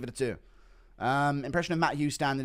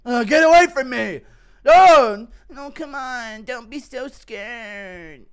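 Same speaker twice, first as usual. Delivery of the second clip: mock panic; 10 semitones higher, 13 dB louder, slower than usual. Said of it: "hunt you down".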